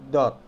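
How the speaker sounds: "dot" with rounded lips; heavy, rounded d in "dot"; pouted D. Shown as a demonstration. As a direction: push lips forward on "dot". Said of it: "ngomong D tapi mulutnya dimonyongin".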